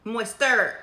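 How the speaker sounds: Moister said in a broad Kentucky accent. Real, not acted. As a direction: correct yourself with a Kentucky twang on Moister. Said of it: "My Kentucky accent, whew, is Kentuckian today".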